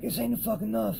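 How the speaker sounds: high exasperated outburst; frustrated snap, pitched high; retold snapping. Weighing up and snapping, high exasperated outburst. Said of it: "I start snapping out".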